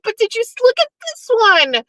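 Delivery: very high, breathless gush; gushing squeal. Retold or imitated. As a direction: squeal to show off the piece. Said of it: "I was like".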